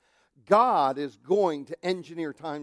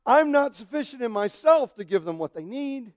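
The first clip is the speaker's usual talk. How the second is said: louder earnest prayer line; louder heartfelt plea to God; prayer of need; 6 semitones higher, 6 dB louder than usual. Shown as a demonstration. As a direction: cry out your insufficiency. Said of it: "I'm supposed to say".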